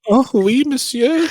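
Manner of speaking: hammed-up high French maid accent; bad French accent. Co-host playing a French maid for a trucker fantasy, hammed-up French accent. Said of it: "my worst French accent".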